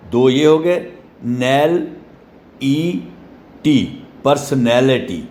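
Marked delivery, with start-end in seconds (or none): 1.2-3.9 "نیل، ای ٹی" as separate beats with pauses; syllable by syllable. Shown as a demonstration. Teacher finishing the regional split for students, "نیل، ای ٹی" separated. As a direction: pause between each part of "نیل، ای ٹی". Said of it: "تو یہ ایک".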